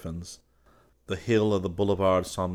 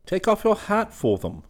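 mild laughing; 13 semitones higher, 5 dB louder than usual. A narrator's reading. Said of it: "said the latter, laughing".

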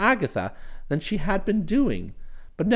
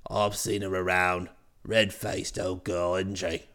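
much lower, hearty brash chap; cheery voice; 13 semitones lower, 7 dB quieter, slower than usual. Acted. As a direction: hail him with cheery familiarity. Bingley voiced again.

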